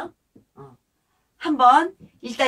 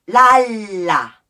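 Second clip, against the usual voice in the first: slow sung notes, loud then softer; 2 semitones lower, 9 dB louder, much slower than usual. Shown as a demonstration. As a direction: swell loud, then drop soft. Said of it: "크게 작게".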